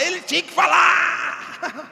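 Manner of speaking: slow, loud, laughing mock shout; hammed-up wife yelling in exasperation; mock angry wife. Pastor imitating his wife, slow laughing shout. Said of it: "ela fica brava que ela fala".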